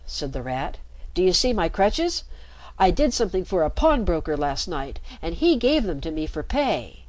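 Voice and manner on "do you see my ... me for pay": forced carelessness. Acted. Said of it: "tried to speak carelessly".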